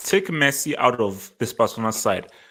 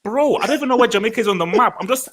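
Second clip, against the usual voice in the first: exasperated retort; 5 semitones higher than usual. Retold or imitated. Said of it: "It's like".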